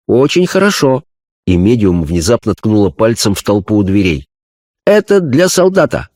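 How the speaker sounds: a spirit medium describing a vision; seance medium. Acted. Medium points at soldier. (голос медиума на сеансе)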